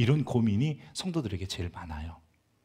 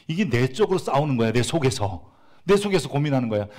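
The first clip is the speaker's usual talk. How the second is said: louder insistent preaching; louder, driving sermon voice; emphatic stress; 3 semitones higher, 6 dB louder than usual. Acted. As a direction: press the inner-struggle point. Emphatic point about inner struggle.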